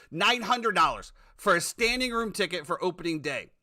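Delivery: indignant. Real, not acted. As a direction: rant it in disbelief. Outraged rant about ticket prices.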